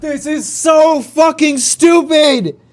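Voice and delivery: real angry shouts at the game; angry shouting. Real, not acted. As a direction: spit out the anger at the game. Raging at the game.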